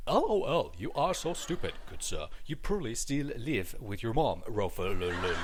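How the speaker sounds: put-on a light British accent, loud and pompous; mock a commenter in a British accent; lightly put-on stuffy British gent; stuffy old British. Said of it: "stuffy old British individual".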